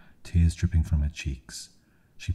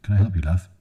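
calling across the road; 4 semitones higher, 4 dB louder, faster than usual. Acted. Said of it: "a gentleman from over the road shouted".

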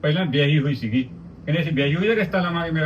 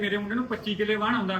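a hint of the proud mother, slightly higher and softer; quoting the boy's mother; 4 semitones higher, 5 dB quieter than usual. Retelling what the boy's mother said, lightly voiced. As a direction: boast about ਵਾਹਣ in her voice, lightly. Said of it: "ਕਹਿੰਦੇ".

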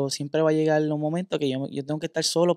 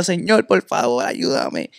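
retold pleading cry; slower than usual. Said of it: "yo estaba gritando en el aire".

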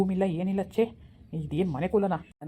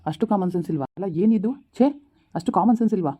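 louder, exasperated ranting; angry husband; 4 dB louder than usual. Acted. Husband yells at his wife that he is leaving, angry. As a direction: lose your temper and insist on going.

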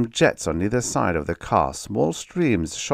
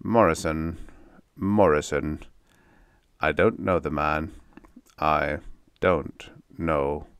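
altered tone. Acted. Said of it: "in an altered tone".

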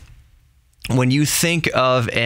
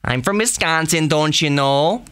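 higher-pitched, exaggerated Wisconsin accent; Midwest accent; 5 semitones higher than usual. Shown as a demonstration. Host imitating the accent heard in Fargo, hammed-up Midwest accent. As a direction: lilt it like a stereotypical Midwesterner. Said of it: "Maybe fourth would be Midwest".

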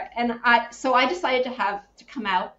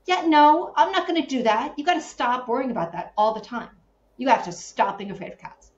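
son's blunt voice; 4 semitones higher, 5 dB louder than usual. Retold or imitated. Son's blunt advice retold.

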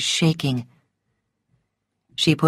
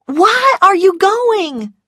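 high, drawn-out wail; anguished plea; 4 dB louder, slower than usual. A narrator's reading. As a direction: cry the question out in despair. Scarlett pleads with departing Rhett.

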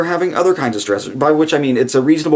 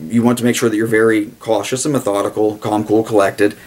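usual speaking voice

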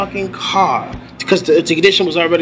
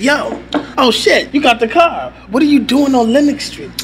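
higher, surprised cousin on the phone; excited cousin; 6 semitones higher than usual. Retold or imitated. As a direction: call out the news high and eager. Cousin voiced in phone call.

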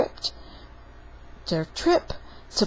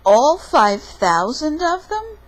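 high, loud incredulous question; disbelief; 9 semitones higher, 8 dB louder than usual. Acted. Papa facing a huge book pile, loud disbelief. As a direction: ask it loudly, pitching up in disbelief. Father balks at pile of books.

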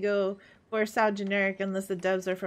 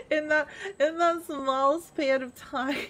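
laughing; 5 semitones higher, 4 dB louder than usual. Real, not acted. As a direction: giggle through the words. Laughing at own forgetfulness.

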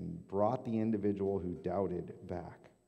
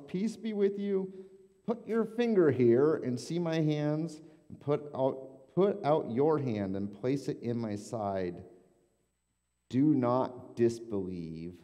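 voicing Jesus; 5 semitones higher, 5 dB louder than usual. Jesus speaking to Thomas, voiced.

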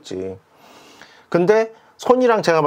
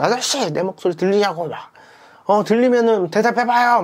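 retold shouting; 5 semitones higher than usual. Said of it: "소리를 지르면서 막 말을 걸었죠".

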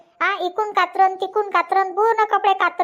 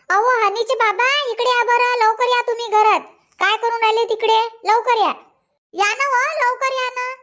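calling out; 5 semitones higher than usual. Acted. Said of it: "काय ओरडून राहिली?".

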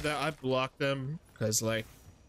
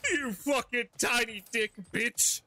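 slow, spiteful mock voice for the head; a hint of a bitter head, slow; voicing Helios; 5 semitones higher, slower than usual. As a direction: drag out the insult as Helios. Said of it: "Ain't that right, Helios?".

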